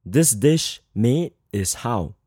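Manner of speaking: slow, deliberate word-for-word English; slow Chinglish gloss. Shown as a demonstration. Teacher showing the literal Chinglish order, slowly. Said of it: "in Chinglish sounds like".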